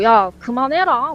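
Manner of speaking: drawn-out, lightly annoyed telling-off; slow mock scolding, only mildly cross; mild retold anger. Sister telling off someone at computer, mildly angry. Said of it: "막 화를 내더래요".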